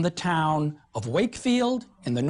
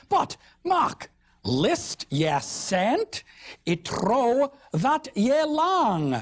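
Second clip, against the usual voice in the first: Northern Middle English; 5 semitones higher, much slower than usual. Acted. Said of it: "Good Northern speech here".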